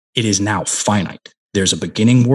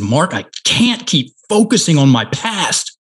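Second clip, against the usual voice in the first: higher, imitating a struggling trainee; higher-pitched quoted outburst; frustrated retold complaint; 6 semitones higher than usual. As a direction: act out his exasperated admission.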